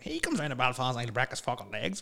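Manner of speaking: lightly put-on Belfast accent; a rough attempt at talking Belfast; bad Belfast accent. Imitating a podcaster threatening Owen Rowe, hint of bad Belfast accent. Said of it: "that's the worst Belfast accent ever".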